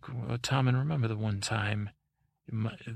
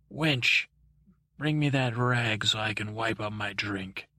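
rude tavern demand. Acted. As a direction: call the serving wench over rudely. Rude drinker orders a wench.

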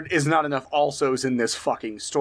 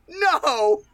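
put-on New Girl shout; 12 semitones higher than usual. Quoting a sitcom clip to friends, a shrieked No. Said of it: "that clip from New Girl".

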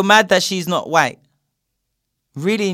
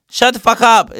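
angry shout; 9 semitones higher, 8 dB louder than usual. Real, not acted. Ranting at racists about James.

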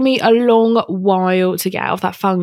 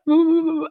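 lip-wobble whimper; 11 semitones higher than usual. Retold or imitated. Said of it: "my bottom lip would be like".

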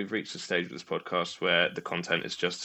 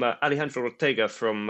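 imitating a Spanish accent on Alejandro Ortega; 3 semitones higher than usual. Quiz contestant introducing himself, mock Spanish accent. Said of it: "he said it in sort of the accent".

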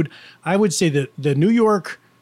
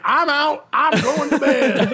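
mock sleepy quit; 9 semitones higher, slower than usual. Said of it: "Mike was like".

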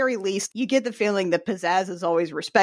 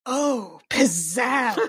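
breathy voice; much slower than usual. Pretend. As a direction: breathe the words out like a starlet. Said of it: "like, a breathy voice".

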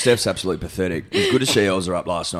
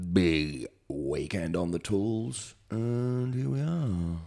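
hungover; 6 dB quieter, much slower than usual. Real, not acted. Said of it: "little bit hungover".

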